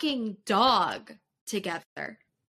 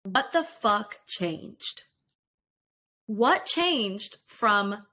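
slow, pleading question. Retold or imitated. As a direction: ask what changed, slowly, hurt. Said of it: "and I just go".

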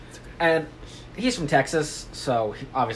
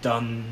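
one drawn-out "dun"; slow, lone mock suspense note; single sting; 5 semitones lower, 6 dB quieter than usual. Shown as a demonstration. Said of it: "depending on when I say blue train".

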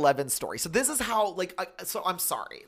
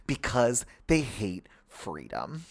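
mom impersonation; 3 semitones lower, much slower than usual. Retold or imitated. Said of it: "do this impersonation of you".

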